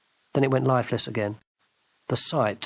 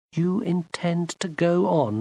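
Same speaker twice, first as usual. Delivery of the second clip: cold anger; 5 semitones higher, slower than usual. Acted. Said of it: "Gwendolen said".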